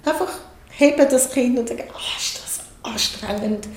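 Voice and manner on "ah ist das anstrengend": slow, softer soothing sigh; calm the crying baby gently. Retold or imitated.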